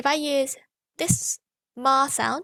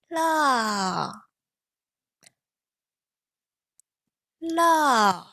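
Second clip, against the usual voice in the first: falling tone la. Shown as a demonstration. Teacher giving the falling la to repeat. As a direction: drop the la down sharply. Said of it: "repeat after me".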